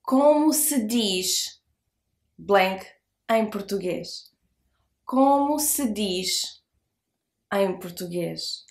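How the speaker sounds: como se diz em português said slowly; drawn-out teaching model of como se diz; slow model phrase. Shown as a demonstration. Teacher models the question slowly for learners. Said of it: "Now you try it".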